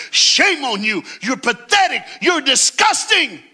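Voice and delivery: loud, high jeering shout; retold angry yelling. Mob yelling shame at the dragged woman, loud jeers. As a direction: spit out the insults like an accusing mob. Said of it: "they were yelling things like".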